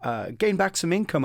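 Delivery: mock optimistic friends. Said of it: "my more optimistic friends were going".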